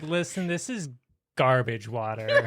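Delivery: low, deadpan put-down; mock blunt verdict. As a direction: lay down a verdict quietly, pausing before the punch. Host mimics her blunt verdict.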